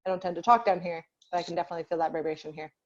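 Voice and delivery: low-pitched talking voice. Shown as a demonstration. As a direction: drop down into the chest a little. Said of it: "talking a little bit lower".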